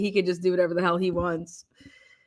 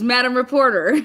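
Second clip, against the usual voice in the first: a hint of the judge's formal address; imitating the judge; 4 semitones higher, 5 dB louder than usual. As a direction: announce "Madam Reporter" a little loud, with a rising end. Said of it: "when she says".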